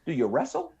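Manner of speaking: soft mock Southern drawl, rising at the end. Clerk asking recruit about wrestling, soft mock Southern drawl. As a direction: ask slyly in a put-on Southern drawl. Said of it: "that Southern drawl accent".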